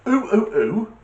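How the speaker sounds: high ooh-oohs mimicking an ape; man imitating the gorilla he saw; retold gorilla hoots. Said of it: "it's gone".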